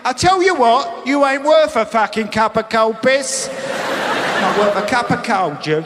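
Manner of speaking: high, loud mock tirade; angry estate insult. Estate resident insulting a neighbour, loud mock tirade. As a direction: spit the insult loudly. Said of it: "give 'em the ump".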